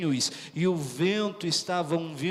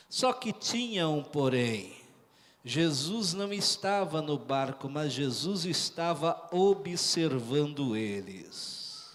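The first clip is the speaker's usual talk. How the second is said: hushed preaching; 4 semitones lower, 6 dB quieter than usual. Real, not acted. Preacher tells the congregation Jesus was watching, hushed. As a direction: drop the voice low for a quiet reveal.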